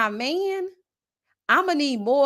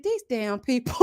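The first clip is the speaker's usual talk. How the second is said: laughing; 4 dB louder than usual. Retold or imitated. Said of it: "I said".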